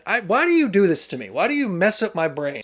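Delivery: pleading complaint, pitch jumping up at first; put-upon mock whine; mock exasperation. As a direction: playfully protest as if personally wronged. Mock complaint at confusing spelling.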